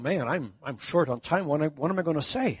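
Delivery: low, quick worried thinking aloud; inner panic. Retold or imitated. The speaker stalls before lunch, low hurried worried mutter. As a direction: mutter it fast to yourself, half panicked. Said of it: "He's going".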